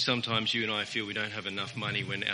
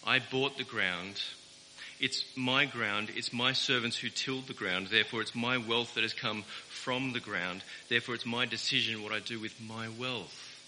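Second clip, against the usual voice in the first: proud declaration. Retold or imitated.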